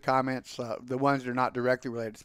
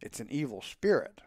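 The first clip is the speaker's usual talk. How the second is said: soft aside to himself; hushed private thought; 3 semitones lower, 7 dB quieter than usual. A narrator's reading. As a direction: say it under your voice, privately. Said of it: "I say to myself".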